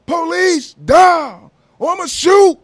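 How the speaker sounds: high, loud mock cop warning shout; proper police warning. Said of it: "no police".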